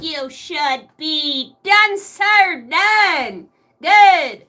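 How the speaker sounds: mock military inspector checking you; a hint of a stern drill sergeant.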